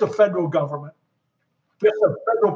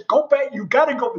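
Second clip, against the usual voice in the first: higher-pitched retold nervous urging; nervous lawyer; 6 semitones higher than usual. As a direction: hurry someone along with mild nerves. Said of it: "He's nervous".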